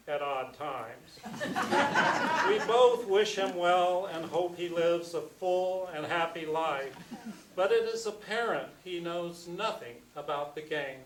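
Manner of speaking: measured, unhurried poetry recital; poem reading. Acted. Reading his basketball poem to the audience, measured and deliberate. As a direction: let each line settle before the next.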